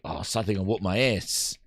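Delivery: low, quiet mumble as the nervous guard; worried bodyguard. Retold or imitated. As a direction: grumble it low under your breath like a guard in trouble. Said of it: "He's like".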